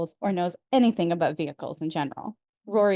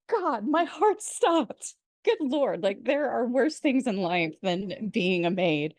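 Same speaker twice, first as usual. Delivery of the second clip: aghast; 2 semitones higher, slower than usual. Retold or imitated. Recapping Emily's relief at the maid joke, mock aghast. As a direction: imitate an appalled grandmother catching her breath. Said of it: "Richard and Emily are completely aghast".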